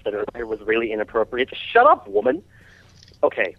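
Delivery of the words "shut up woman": shouting. Real, not acted. Yelling at caller.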